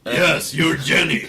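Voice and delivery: loud, delighted outburst; excited exclamation. Real, not acted. Co-host cheering on a friend's character idea, excited. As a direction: exclaim it loudly with glee.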